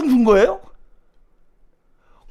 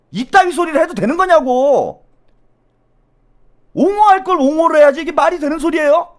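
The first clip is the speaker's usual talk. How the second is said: high, raised indignant outburst; furious protest; 7 semitones higher, 4 dB louder than usual. Real, not acted. Host railing at people excusing the aides, furious. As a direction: demand how they dare, really angry. Peak of an angry rant.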